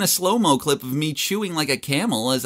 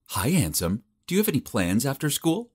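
sultry voice; 3 semitones higher than usual. Acted. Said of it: "in this sultry voice".

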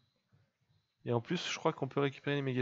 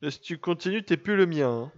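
higher, louder playful warning; mock threat; 5 semitones higher, 5 dB louder than usual. Real, not acted. Owner threatening to disown a noisy pet, mock-stern warning. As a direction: warn the pet in a raised, teasing voice.

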